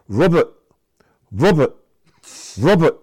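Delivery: high, loud Cockney calling of a name; Cockney accent. Retold or imitated. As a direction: call the name in thick Cockney. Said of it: "this thick Cockney accent".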